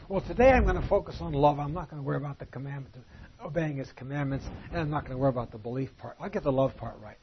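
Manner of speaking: mock excuse. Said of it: "You can't say".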